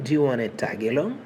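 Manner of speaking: fast, run together like real speech; quick natural take. Shown as a demonstration. Teacher speeding the phrase up for learners. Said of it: "fast natural take".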